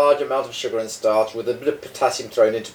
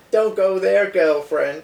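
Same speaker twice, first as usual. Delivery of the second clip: sassy; 5 semitones higher, slower than usual. Pretend. Sassy catchphrase, high.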